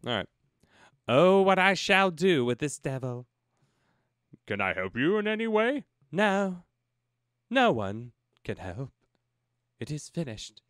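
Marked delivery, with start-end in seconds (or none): 1.1-3.3 posh English reading. Acted. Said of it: "attempt an English accent". 4.5-10.6 posh English lament. Acted. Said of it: "find my British accent".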